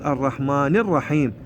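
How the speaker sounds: الرحمن الرحيم as "ar-rahmaanir-raheem"; careful recited model, "ni" ending on الرحمن; kasra on nun. Shown as a demonstration. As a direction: slowly link الرحمن with an "i". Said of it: "لا، هي الرحماني مكسورة".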